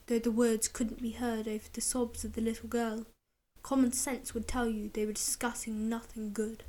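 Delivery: whispered storytelling; hushed narration. A narrator's reading. Narrator whispers the scene, hushed. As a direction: tell it in a hush.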